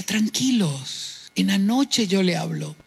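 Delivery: slow, soft, soothing reassurance; calm mother. Retold or imitated. Mother calming children while father shouts, slow and soft. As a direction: settle the children down gently. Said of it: "ella decía".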